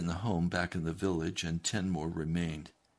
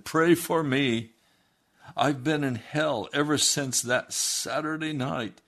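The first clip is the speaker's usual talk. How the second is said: higher, louder plea; reenacted anguished appeal; pleading sinner; 6 semitones higher, 5 dB louder than usual. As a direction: beg desperately for prayer. Desperate man begs for prayer.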